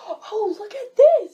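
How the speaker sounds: high, loud, slow gushing oh with a laugh; nosy guest. Retold or imitated. New guest picking up things in bedroom, excited gushing. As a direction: gush over everything like a nosy visitor.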